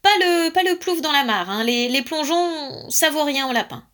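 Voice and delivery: high, loud stammering protest; terrified. A narrator's reading. Alaric dreading the dive into the pond, terrified. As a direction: plead in a panicky, halting rush. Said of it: "épouvanté".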